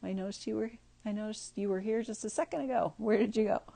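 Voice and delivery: soft, gentle check-in; softly coaxing a drifting friend back; gentle asking. Shown as a demonstration. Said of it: "notice gently and just say".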